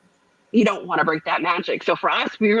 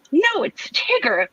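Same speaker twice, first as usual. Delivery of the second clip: slow insistence; 9 semitones higher, slower than usual. Retold or imitated. Firm insistence to the guest.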